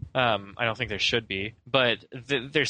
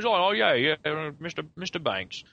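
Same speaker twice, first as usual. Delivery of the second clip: lightly voiced cheery Bert, higher at the start; a hint of Bert the chimney sweep turning to the camera; Bert talking to camera; 3 semitones higher than usual. Host imitating Bert addressing Mister Banks, lightly voiced and cheery. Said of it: "he, like, looks at the camera".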